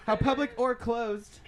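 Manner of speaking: slow, careful stoned reread; reading while high; stoner. Real, not acted. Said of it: "I'm really high right now".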